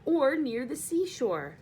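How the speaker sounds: put-on loud, slow eager boy; light up at the idea. James tells bugs of the seashore, loud and eager. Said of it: "said James eagerly".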